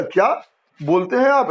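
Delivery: rising क्या, a beat, then बोलते हैं आप falling; astonished break after क्या, as at something never said before; pause after क्या. Shown as a demonstration. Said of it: "ऐसा लगता है जैसे पहले कभी नहीं बोलता था". (क्या पर उठता स्वर, फिर ठहराव)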